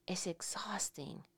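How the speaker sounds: whispered, almost no voice. Shown as a demonstration. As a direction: breathe the words out in a whisper. Repeated as a whisper.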